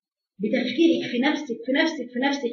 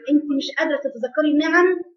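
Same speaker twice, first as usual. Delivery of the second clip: usual speaking voice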